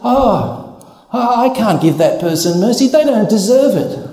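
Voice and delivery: mock indignant. Imitating people who refuse to give mercy, huffy. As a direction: scoff like a grudging believer. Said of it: "You hear people say".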